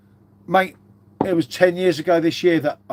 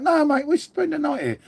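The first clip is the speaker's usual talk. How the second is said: retold insistence; 11 semitones higher than usual. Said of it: "I was like".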